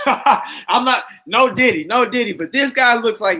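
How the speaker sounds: loud, high, amused burst; laughing while talking. Real, not acted. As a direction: talk through real laughter. Cracking up while mocking the guy.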